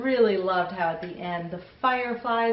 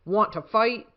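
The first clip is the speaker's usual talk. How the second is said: grouchy ladybug; 3 semitones higher, 4 dB louder than usual. Acted. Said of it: "said the grouchy ladybug".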